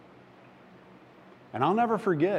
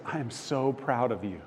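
tender reassurance; 4 dB quieter than usual. Retold or imitated. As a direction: quietly voice a father's approval. God's reassurance, first take.

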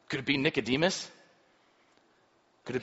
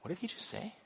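amazed priest; 6 semitones higher, 12 dB quieter, faster than usual. Acted.

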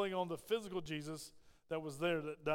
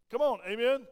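urging call; 2 semitones higher, 6 dB louder than usual. Real, not acted. Urging congregation to respond.

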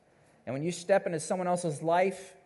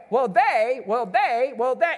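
put-on kids whining excuses; 6 semitones higher, 6 dB louder, slower than usual. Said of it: "They're always the blame game".

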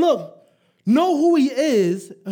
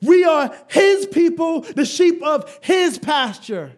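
louder, leading the whole room; leading the congregation; 4 semitones higher, 3 dB louder than usual. Shown as a demonstration. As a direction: call it out for all to repeat. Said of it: "All together".

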